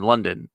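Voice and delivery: mock-accented London; mimicked pronunciation. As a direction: say London with a full 'don'.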